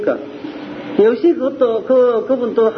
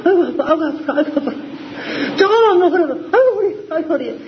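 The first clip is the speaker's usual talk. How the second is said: mock old person groaning; 5 semitones higher, faster than usual. Preacher mocks old folks complaining to their young son, hammed-up groaning. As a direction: whine aigo like a frail old parent putting it on. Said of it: "약한 척을 하는지".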